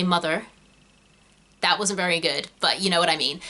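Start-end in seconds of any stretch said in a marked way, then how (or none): 0.0-0.5 attempted American "mother" with the final R pronounced; American accent. Shown as a demonstration. Brit demonstrating rhotic R to learners, attempted American accent. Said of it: "you pronounce the R on the end of mother".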